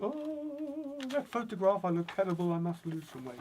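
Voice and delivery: high dismayed "oh", then fretting; mock dismay. Someone looking at their Christmas photographs, mock dismayed. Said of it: "you know, they think".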